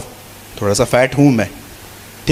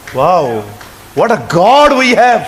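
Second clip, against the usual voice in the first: slow awe; much slower than usual. Real, not acted. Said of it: "preacher exclaims".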